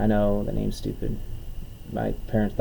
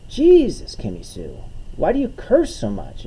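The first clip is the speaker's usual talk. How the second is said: high, loud "Jesus" dropping to a chiding question; exasperated brother, pitched up in mock dismay; exasperated scolding; 4 semitones higher, 3 dB louder than usual. Comedian retelling how he chided his sister, exasperated.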